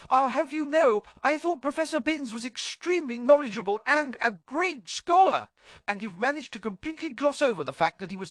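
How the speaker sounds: a hint of a sparky young witch teasing; Tonks voice. A narrator's reading. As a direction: play the cheeky Auror, needling her friend.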